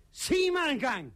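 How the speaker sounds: very high-pitched indignant prioress; punchline in a piping, high woman's voice. Acted. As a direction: call out in a high falsetto as the prioress. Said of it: "Priorinden stikker hovedet ud og siger".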